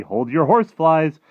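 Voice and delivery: high, loud giant voice; eager friendly giant. Acted. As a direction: break in eagerly as the giant with an idea. Voices the BFG.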